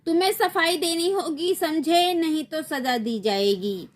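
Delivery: high, stern warning; stern queen warning. Acted. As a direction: threaten the boy from the throne. Night queen warns Sunil. (ऊँची, सख़्त चेतावनी)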